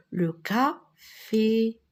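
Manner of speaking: café stretched out slowly; very slow model word. Shown as a demonstration. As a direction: draw out café for the children. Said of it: "model word". (café très lentement articulé)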